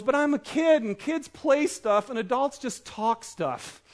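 lightly voiced kid, slow and plaintive; protesting little girl. Daughter objecting to an adult party, mildly pouty. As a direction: start high and spell out the complaint slowly.

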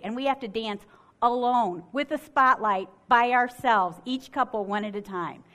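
ordinary talk

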